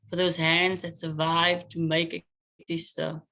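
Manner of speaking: measured, rhythmic spoken-word delivery; poem reading. Acted. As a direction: let each image land with long pauses. Poet reads her poem aloud.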